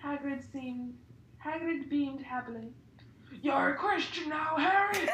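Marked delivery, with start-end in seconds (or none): 3.4-5.1 proud cry. Acted. Hagrid congratulating Harry, proud loud cry. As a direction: cheer him on with pride. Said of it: "Hagrid cried proudly".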